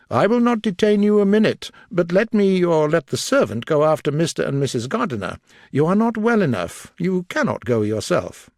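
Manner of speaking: concerned gentleman. A narrator's reading. Darcy urging the unwell Elizabeth to stay, concerned. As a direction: press her kindly but firmly.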